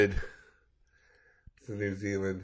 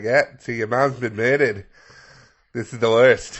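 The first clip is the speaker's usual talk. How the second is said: mock cop delivering news; 5 dB louder than usual. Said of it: "It's like".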